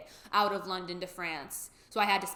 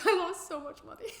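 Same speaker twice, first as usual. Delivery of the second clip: much higher and louder exclaim; high loud exasperated cry; exasperated outburst; 10 semitones higher, 4 dB louder than usual. Real, not acted. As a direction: burst out in mock despair. Exclamation to viewers.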